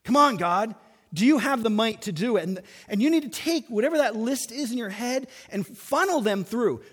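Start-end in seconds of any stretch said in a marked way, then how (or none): 0.0-2.4 doubting prayer. Retold or imitated. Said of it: "There's something you're wondering".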